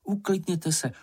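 mild soothing request; calming. A narrator's reading. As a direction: hush them at a normal pace. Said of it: "pravila maminka".

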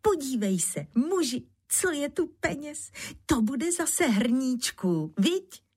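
high delighted call to her husband; joyful calling. A narrator's reading. Bára calls to her husband about the money, high and joyful. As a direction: show him the treasure with glee. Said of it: "hned volala radostně".

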